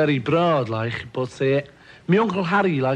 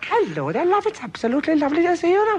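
very high-pitched put-on Welsh accent. Discussing accents, showing how people in Wales talk, imitating a Welsh accent. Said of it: "We've got Wales, and they all talk like".

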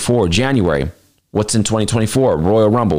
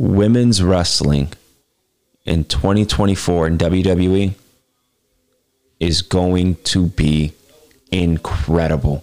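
as slow as possible, drawn-out; 4 semitones lower than usual. Making a prediction about WWE, saying it as slow as possible. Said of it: "I'm going to say this as slow as possible".

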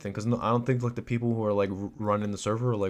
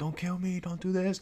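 mock very high squealing yell through a microphone; 9 semitones higher than usual. Describing players in proximity chat running away: imitating players yelling. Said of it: "yelling through their mics, like".

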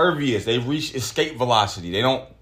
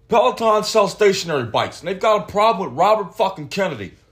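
outraged, furious rant, pitched up high; 8 semitones higher than usual. Reading a story about a rant against Peloton, the speaker does a Dana White impression. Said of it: "That's my Dana White impression".

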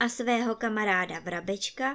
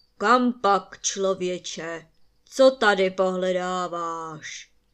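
thunderous, booming giant voice, slow; 2 semitones lower, 6 dB louder than usual. A giant suddenly appears before Mistr Jehlička in the forest: thunderous voice. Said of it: "Zeptal se obr hromovým hlasem".

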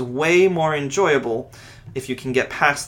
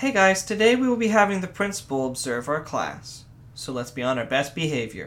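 meek, timid, weak-willed voice with no authority; 2 semitones higher, 4 dB quieter than usual. Acting a teacher telling the class the principal will observe: weak, no authority. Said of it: "what a weak will. I felt no authority in that".

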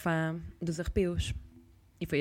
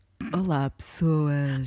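put-on, placed, broadcast-style radio announcer voice; 2 semitones lower than usual. Greeting the listeners in a radio voice. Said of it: "que voz de rádio".

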